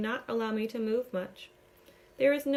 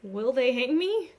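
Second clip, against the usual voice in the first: panic; 3 semitones higher, 7 dB louder than usual. A narrator's reading. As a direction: blurt it out in panic. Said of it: "I start to panic".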